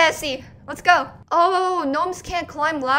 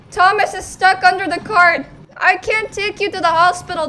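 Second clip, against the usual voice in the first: raised, urgent voice; alarmed outcry; 4 semitones higher, 5 dB louder than usual. Real, not acted. Player whose gnome is stuck under cart, alarmed. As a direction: panic over someone trapped.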